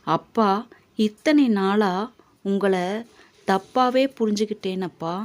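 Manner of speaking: soft, subdued confession from a son; understated regret, voice sinking; quiet remorse. Acted. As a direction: admit a long-held mistake gently. Son tearfully admits misjudging father.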